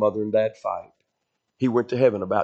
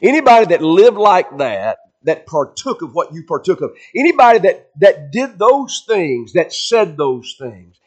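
higher, louder accusing voice hammering each phrase; devil's accusation; 6 semitones higher, 7 dB louder than usual. Retold or imitated. Preacher voicing the devil's taunt in his mind, loud and accusing. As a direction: throw the charge at him like the devil. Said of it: "here's what the devil put in my mind".

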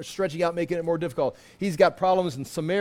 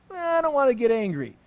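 mock reluctant whine; 6 semitones higher than usual. Mock excuse of reluctant believers.

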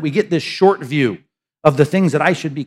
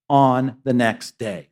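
slow savoring; 4 semitones lower, much slower than usual. Shown as a demonstration. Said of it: "I just love that".

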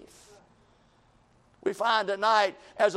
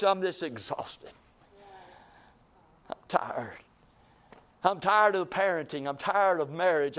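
worn-out sigh; 3 semitones lower than usual. Retold or imitated. Preacher imitating a tired spouse and parent, mildly weary and low. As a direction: let the mild weariness drag each line.

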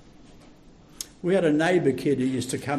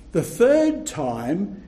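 ordinary talk

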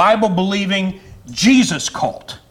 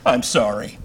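laughing apology; 9 semitones higher, 7 dB quieter than usual. Real, not acted. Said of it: "you saw me get a little emotional".

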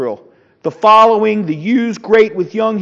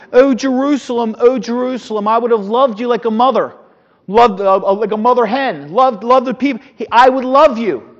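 raised, pleading lament for Jerusalem, a little higher and louder; crying out lament; 4 semitones higher, 4 dB louder than usual. Retold or imitated. Pastor voicing Christ's lament over Jerusalem, pleading cry. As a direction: cry it out like a grieving mother. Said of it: "he, he cried".

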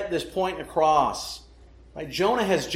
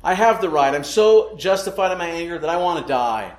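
a louder, insistent touch of a stubborn prophet; defiant Jonah; 5 dB louder than usual. Retold or imitated. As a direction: Jonah digging in his heels, only lightly voiced. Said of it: "Jonah says".

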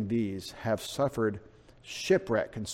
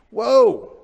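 loud, high "whoa"; startled; 11 semitones higher, 9 dB louder than usual. Acted. Preacher reacts to turned over to Satan, startled. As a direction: pull up short in mock alarm.

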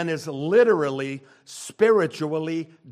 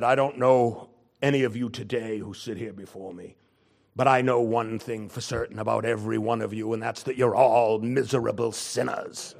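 lower-pitched impression of an old British preacher; a hint of the old preacher, lowered voice; imitating Martyn Lloyd-Jones; 5 semitones lower than usual. Preacher imitates Lloyd-Jones from cassette for congregation, lowered voice. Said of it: "he talked like this".

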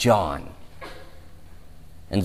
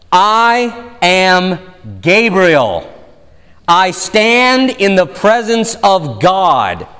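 snarky Gabriel; 5 semitones higher, slower than usual. Retold or imitated. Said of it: "Gabriel replied with a bit of a snarky tone in his voice".

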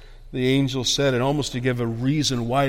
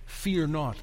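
hushed quotation; 8 dB quieter than usual. Real, not acted. Preacher recalling the old King James wording, hushed. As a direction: quote it quietly.

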